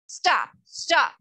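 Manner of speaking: high, loud plea; pleading. A narrator's reading. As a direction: cry out, begging them to stop. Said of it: "in a pleading voice".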